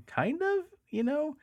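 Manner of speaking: high hissy creature voice; hissy Gollum voice. Shown as a demonstration. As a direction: hiss it out like Gollum. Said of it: "kinda hissy and kinda, you know, raspy".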